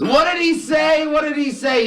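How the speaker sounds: very high-pitched screech of a wife; hammed-up high wifely yell. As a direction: yell it in a piercing falsetto, dragging the end. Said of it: "She yells out once more".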